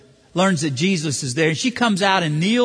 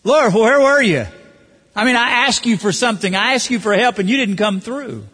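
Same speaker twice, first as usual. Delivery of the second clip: loud, high-pitched demand for an answer; accusing; 5 semitones higher, 4 dB louder than usual. Acted. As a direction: reproach the Lord for letting you down. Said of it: "You catch the inflection of accusation there?".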